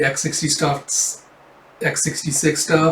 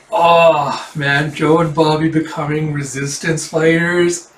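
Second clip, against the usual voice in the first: excited; 3 semitones higher, 4 dB louder, slower than usual. Real, not acted. Reacting to the twist.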